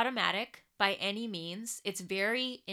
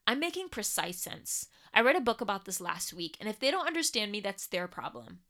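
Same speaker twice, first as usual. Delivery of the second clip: defensive. Acted. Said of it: "a reactive voice thereby says".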